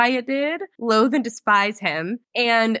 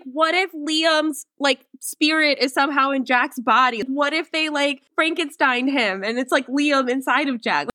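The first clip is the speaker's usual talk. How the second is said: speculating; 5 semitones higher than usual. Retold or imitated. Retold wild theory.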